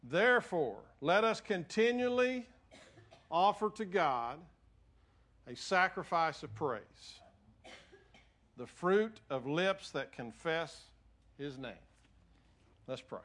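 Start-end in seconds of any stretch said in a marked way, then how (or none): 0.0-11.7 measured verse reading with long pauses; deliberate reading, slowing and dropping toward the end; emphatic scripture reading. Real, not acted. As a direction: read phrase by phrase, weighting key words. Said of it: "The emphasis on the different words".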